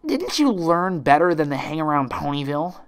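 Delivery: loud, brash pegasus taunt; brash tomboy. Acted. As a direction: sneer it down at her. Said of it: "interjected Rainbow Dash".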